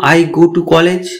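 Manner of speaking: very slow, each word spaced out for learners; teacher says it slowly so students can copy; slow English model sentence. Shown as a demonstration. Teacher models the English slowly for beginners. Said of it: "তাহলে লিখবো".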